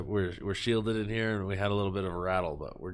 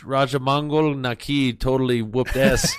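loud hype; 2 semitones higher, 5 dB louder than usual. Shown as a demonstration. Hyped sports call.

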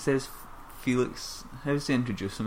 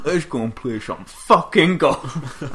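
louder, slowed camp voice with laughs; camp mock voice; 7 dB louder than usual. Cohost riffing on the gay joke, camp voice. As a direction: camp it up, teasing. Camp banter mocking the quote.

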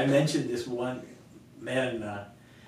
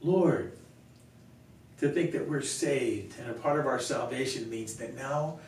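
earnest spoken prayer, strong opening; 3 dB louder than usual. Real, not acted. Pastor closing the talk by thanking God, praying. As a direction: address God in thanks, with long pauses.

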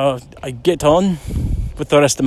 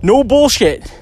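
insistent; 11 semitones higher, 5 dB louder, slower than usual. Retold or imitated. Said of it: "He goes".

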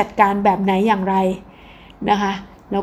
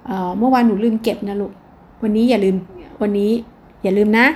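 gentle repeat. Shown as a demonstration. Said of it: "พูดด้วยน้ำเสียงทวนอีกครั้งหนึ่งไง".

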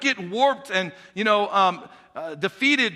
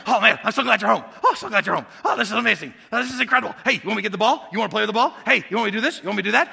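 dog greeting its owner, bursting with joy; overjoyed dog; much faster than usual. Acted. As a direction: gush like a dog at the door. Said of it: "what the dog does when the owner comes home".

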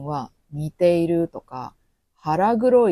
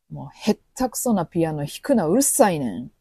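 blunt Kansai complaint; 3 dB louder, faster than usual. Retold or imitated. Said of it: "という意味になります".

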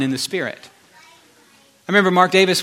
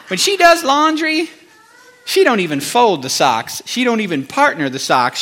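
exasperated venting. Retold or imitated. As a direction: act out a comic furious rant, drawing out the last words. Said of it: "like, furious all the time".

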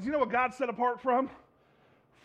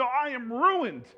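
slow lament; much slower than usual. Acted. Acted confession.

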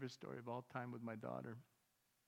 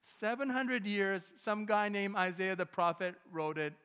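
slow, louder stress on hundred; emphatic preaching; 4 semitones higher, 9 dB louder, slower than usual. Acted. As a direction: hammer home the seven hundred years. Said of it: "emphatic sermon point".

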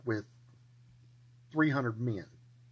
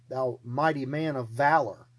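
slow, mock-solemn praise; a teasing, grandiose title; mock grand address; slower than usual. Angel teasing Gideon with a slow, mock-solemn address. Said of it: "God is poking fun at Gideon".

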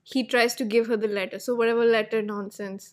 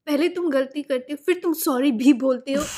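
rapid mock scolding; 3 semitones higher, much faster than usual. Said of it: "he goes".

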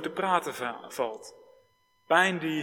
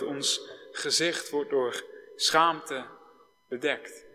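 solemn lament. Retold or imitated. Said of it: "en zingen".

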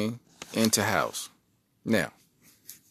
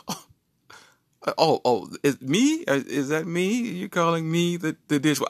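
offended wife. Retold or imitated. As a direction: squeak out her offense. Wife offended, voiced in story.

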